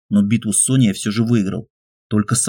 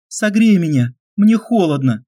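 higher, urgent female plea; pleading young woman; 9 semitones higher than usual. A narrator's reading. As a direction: beg him to warm you. Olga pleads, freezing.

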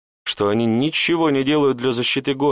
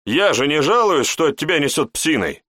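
a bit louder, higher irritated retort; slightly irritated; 6 semitones higher, 3 dB louder than usual. A narrator's reading. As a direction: snap back with mild annoyance. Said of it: "немного взбесился я". (слегка раздражённо)

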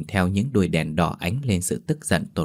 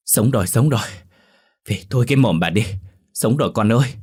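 higher, excited exclamations; overjoyed; 3 semitones higher, 4 dB louder, faster than usual. A narrator's reading. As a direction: burst out with relief and joy. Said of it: "Bà Dung sung sướng". (reo lên sung sướng)

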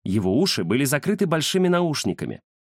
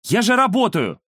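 высоко и громко, с обидой; оправдываться перед дедом; недовольный юноша; 10 semitones higher, 5 dB louder than usual. Acted. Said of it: "недовольный юношеский голос". (внук обиженно возражает деду)

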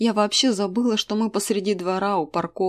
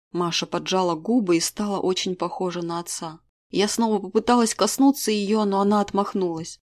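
ordinary delivery

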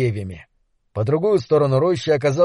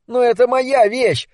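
shouting; 9 semitones higher than usual. Acted. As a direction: yell it as his own property. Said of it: "закричал в ответ Дебона". (крик обиды)

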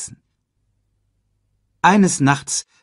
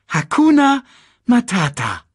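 put-on young lion cub, eager echo; bright cub repeating happily; Simba voice; 13 semitones higher, 6 dB louder than usual. A narrator's reading. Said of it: "sagte Simba".

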